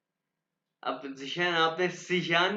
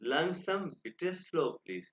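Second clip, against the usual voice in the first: very slow; 4 dB quieter, much slower than usual. Shown as a demonstration. Teacher modelling slow please for students, very slow. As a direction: say langsam bitte very slowly and softer. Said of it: "आपको लगे मैं तेज पढ़ा रहा हूँ".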